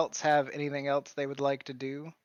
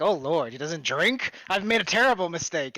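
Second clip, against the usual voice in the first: mock aghast; 3 semitones higher, 3 dB louder than usual. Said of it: "like, aghast".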